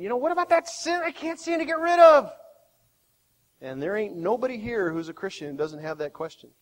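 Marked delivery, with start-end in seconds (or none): 0.0-2.3 high, questioning worried believer; a struggling believer asking the preacher; imagined listener. Retold or imitated. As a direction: voice the doubt in the listener's head. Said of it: "maybe you're thinking".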